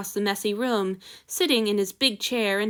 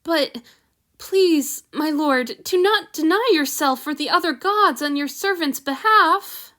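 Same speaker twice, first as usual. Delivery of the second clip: nervous plea; 4 semitones higher, 3 dB louder than usual. Acted. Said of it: "He pulled in a trembling breath".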